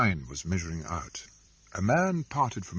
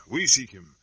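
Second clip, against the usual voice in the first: firmer, louder second take; louder stern claim; 2 semitones higher, 7 dB louder than usual. Acted. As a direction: stress we with force. Soldier repeats, louder.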